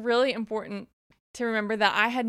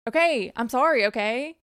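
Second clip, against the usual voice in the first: louder, snapping "Okay, I'm sorry"; irritated mock apology; 5 dB louder than usual. Host imitating a bully's grudging apology, louder and curt. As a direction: toss it off like a fed-up bully. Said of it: "like the bully apology".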